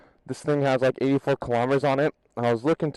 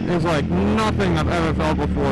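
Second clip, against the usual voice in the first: excited; slower than usual. Real, not acted. Thrilled by the acceleration.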